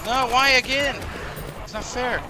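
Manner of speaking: mock whine. Mock complaint at another attack.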